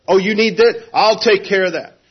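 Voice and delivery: high doting mock-parent voice; fussing parent. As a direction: coo over the child like a smothering parent. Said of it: "a good parent doesn't run up and say".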